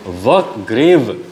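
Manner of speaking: "ग्रेव" with the व sounded out too fully; a separate व, then "ग्रेव" with that व made audible; overpronounced V. Shown as a demonstration. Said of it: "ऐसा हम नहीं बोलते हैं". ("ग्रेव" का व ज़रूरत से ज़्यादा उभारकर)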